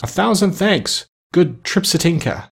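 high, slow cry of thanks; fervent cry. A narrator's reading. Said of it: "cried the prince".

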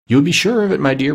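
high, emphatic husband's reply; eager insistence. A narrator's reading. Husband assuring his wife about the nephew, eager insistence. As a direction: insist eagerly, pitch lifted.

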